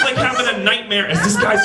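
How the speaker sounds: ordinary talk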